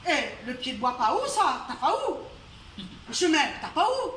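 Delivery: outraged, questioning the landlord; indignant surprise. Acted. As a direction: Chang protesting he has the right to rest. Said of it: "il a dit".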